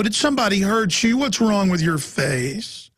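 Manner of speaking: nosy stranger. Retold or imitated. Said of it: "they lean down to your kid and they go".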